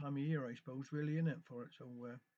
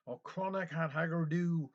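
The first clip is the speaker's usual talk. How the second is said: a mild mock curse, a little louder; wrathful cry; 6 dB louder, slower than usual. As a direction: spit out the Cornish curse, understated. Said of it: "she wrathfully cried".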